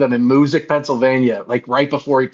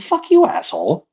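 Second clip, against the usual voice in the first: mock whine pitched way up; whiny imitation; 13 semitones higher than usual. Wrestler insulting the fans, imitated high and whiny. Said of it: "he got whiny".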